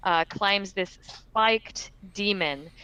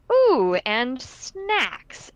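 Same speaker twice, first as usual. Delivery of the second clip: slow, higher creature voice; Abyssal demon muttering; 4 semitones higher, 4 dB louder, much slower than usual. Acted. Game master voices the demon eyeing prey, Abyssal mutter. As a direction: draw it out like a hungry demon, pitched up. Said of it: "mutters in its abyssal tone".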